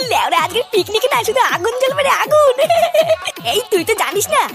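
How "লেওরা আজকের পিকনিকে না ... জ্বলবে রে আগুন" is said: laughing boast. Acted. Friend brags to Kalu about the booze, laughing. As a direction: gloat through a laugh.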